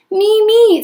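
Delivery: clamor to be picked first; eager stepsister. Acted. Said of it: "said one of my darlings".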